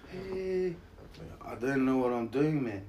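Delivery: cheerful broad New Zealand bloke; broad kiwi accent. Retold or imitated. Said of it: "And I'll be like".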